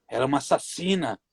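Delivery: possessed demon voice. Retold or imitated. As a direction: growl it out like a possessed spirit. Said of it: "sabe aquela voz do demônio". (voz grave de demônio possuído)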